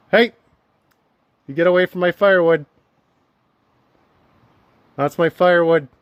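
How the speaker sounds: loud, sharp shout to chase off a bear. Real, not acted. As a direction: yell at the bear to back off.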